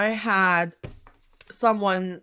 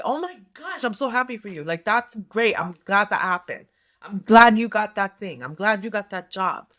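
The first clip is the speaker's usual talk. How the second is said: bright, eager congratulations, pitch jumping up at the start; genuinely happy for you; 4 dB louder than usual. Shown as a demonstration. Telling a friend she's glad about the new job, genuinely delighted. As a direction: gush about a friend's good news. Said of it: "So, so if I go like".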